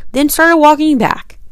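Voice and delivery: breathy, drained whisper, slowed down; half-whispered trudge; weary whisper. Real, not acted. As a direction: whisper it like you're worn out. Trudging back after a long walk.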